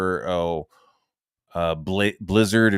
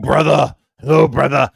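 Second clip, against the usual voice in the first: higher, louder hammed-up brotherly hail; mock greeting; 5 semitones higher, 9 dB louder than usual. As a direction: greet him like a comrade in arms. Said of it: "I'm like".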